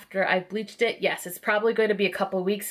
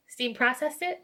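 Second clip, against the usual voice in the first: rising, unsure question; 4 semitones higher, 4 dB quieter than usual. Real, not acted. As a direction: check the phrase as a question. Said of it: "Yeah, there we go".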